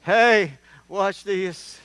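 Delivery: loud, high redneck holler; redneck yell. Retold or imitated. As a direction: shout it like a cocky redneck about to do a stunt. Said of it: "redneck guy says right before he dies".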